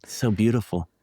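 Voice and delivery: awed American tourist drawing out Durham; mock American accent. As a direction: play an impressed American visitor, lightly. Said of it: "there's a lot of Americans".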